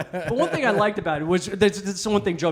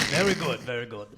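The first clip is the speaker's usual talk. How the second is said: put-on Japanese accent; 5 semitones lower than usual. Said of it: "I can't do that accent".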